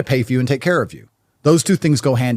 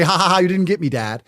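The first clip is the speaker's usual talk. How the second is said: son teasing dad; 4 semitones higher than usual. Retold or imitated. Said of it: "laugh and say".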